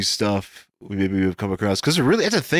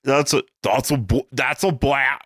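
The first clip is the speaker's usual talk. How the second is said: higher, halting fake Australian; bad Australian accent; 4 semitones higher than usual. Attempting the knife line after the co-host, bad Australian accent. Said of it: "maybe accents aren't for you".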